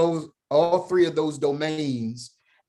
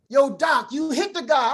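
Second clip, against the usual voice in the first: higher mock friend blurting it out; friend calling out; 13 semitones higher than usual. Friend at the driving range, higher teasing call. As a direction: imitate the buddy ratting him out. Friend's quote in golf story.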